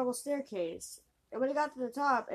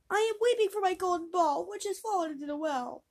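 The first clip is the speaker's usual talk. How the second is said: high, louder whining princess; 8 semitones higher, 4 dB louder than usual. Acted. Princess tells the frog about her golden ball, high and whiny. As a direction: lament the lost ball like a child.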